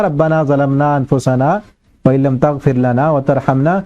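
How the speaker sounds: slow, measured recitation of the verse; Quranic recitation. Shown as a demonstration. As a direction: recite the Arabic slowly with tajweed. (قرآنی آیت کی دھیمی تلاوت)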